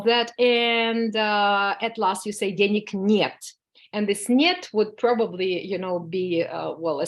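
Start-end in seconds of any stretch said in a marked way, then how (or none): 2.5-3.5 "Денег нет." slow, with a firm falling end on "нет". Shown as a demonstration. Teacher modelling a final refusal, slow with a falling tone. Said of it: "this нет ... with that falling tone". 4.3-4.7 "нет" starts high and loud, then falls; falling tone. Shown as a demonstration. Teacher isolating the refusal word, high and falling. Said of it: "with that falling tone".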